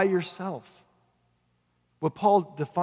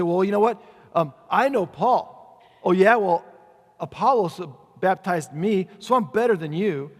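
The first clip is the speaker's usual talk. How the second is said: mock squabbling believers, louder than usual; punchy, acted-out one-upmanship; one-upping boast; 6 dB louder than usual. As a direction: brag as if topping a rival. Acting out rival church factions boasting.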